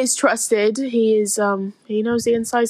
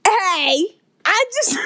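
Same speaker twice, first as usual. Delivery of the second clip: put-on thick Yorkshire accent; 5 semitones higher, slower than usual. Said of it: "That is one thick Yorkshire accent".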